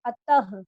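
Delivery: अतः ending in a breathy h; अतः with a clear final h; visarga demo. Shown as a demonstration. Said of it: "वो ह की तरह होता है".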